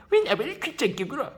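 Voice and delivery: very high falsetto lady, rising; lady's voice. Retold or imitated. Kim mimicking the schoolgirl who rebuffed him. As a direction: mimic a prim young lady. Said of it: "정말 꾀꼬리 같은 소리를 내었다".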